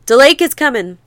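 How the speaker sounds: mild hammed-up shout of warning; crying out. Fleeing people crying out warnings to the shanties, half-shouted. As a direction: call out the danger as you run. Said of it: "They cried out as best they could".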